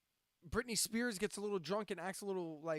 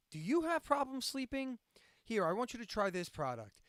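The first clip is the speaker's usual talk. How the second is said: lightly voiced ad pitchman, raised pitch on the question; playful infomercial opener; commercial pitch; 4 semitones higher than usual. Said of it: "started to sound like a commercial".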